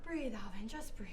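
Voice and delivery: soft whisper to himself; whispered to self. Acted. Nervous detective coaching himself, whispering. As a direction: whisper it to calm your own nerves.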